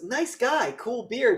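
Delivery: very high, loud compliment; hammed-up chipper praise; mock cheery approval. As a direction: imitate an oblivious pal gushing. Acts out oblivious lawyer's praise.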